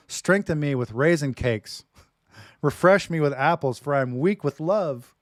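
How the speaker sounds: loud, slow, fervent scripture reading; dramatic reading. Acted. Preacher reading the Song of Songs aloud to his wife, loud and slow. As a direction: declaim it like a lover's poem. Reads love poem dramatically.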